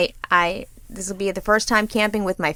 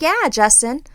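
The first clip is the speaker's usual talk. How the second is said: sarcastic teasing; 4 semitones higher than usual. Retold or imitated. Mocking her husband again.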